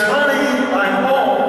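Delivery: high, bright sing-song call to the house; carefree husband announcing he's home; cheerful homecoming call. Pretend. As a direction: call out happily from the front door. Husband cheerfully calls out arriving home.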